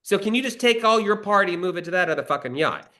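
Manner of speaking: high, petulant mock voice of the director; mock whiny director. Writer imitating the director's refusal, high petulant mock. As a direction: mimic her spoiled complaint. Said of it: "I was so mad".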